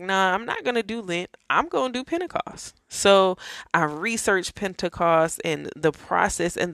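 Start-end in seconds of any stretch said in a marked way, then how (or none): 0.0-2.7 excited. Retold or imitated. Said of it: "I was just so excited about that".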